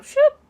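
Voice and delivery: sharp high whooshing "shoop"; imitating the spike strip snapping down, high and loud; spike strip sound.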